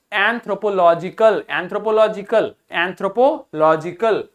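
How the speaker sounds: एंथ्रोपोलॉजिकल said clearly, repeated with falling end; teacher's model pronunciation. Shown as a demonstration. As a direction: model एंथ्रोपोलॉजिकल for students, each syllable clear. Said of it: "शब्द हमारा क्या है?". (शिक्षक का साफ़ उच्चारण)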